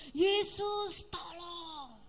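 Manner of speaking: imitating an old woman calling to Jesus; retold cry for help. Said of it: "teriak, sebut nama Yesus".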